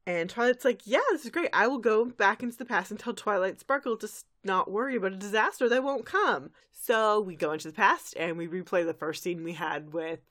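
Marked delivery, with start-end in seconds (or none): 0.9-6.5 higher, enthusiastic resolve; eager. Retold or imitated. Recapper plays a pony off to warn her past self, eager. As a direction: jump at the plan. Voices Twilight's eager plan.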